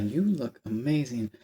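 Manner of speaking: slow, lightly suave retelling; a hint of smooth charm, slow; suave compliment again. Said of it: "the way he said it".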